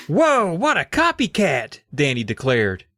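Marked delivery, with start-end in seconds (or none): 0.1-1.8 mocking kid voice. Danny voiced in story.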